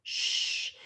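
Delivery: "Sh" as one sustained voiceless sound; isolated digraph sound. Shown as a demonstration. Teacher repeating two letters making one sound, held out. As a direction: hold "Sh" out with no vowel. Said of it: "two consonants making one sound".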